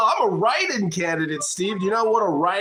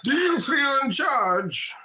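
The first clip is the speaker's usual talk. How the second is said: menacing villain; 5 semitones higher, slower than usual. Acted. Menacing movie villain quote.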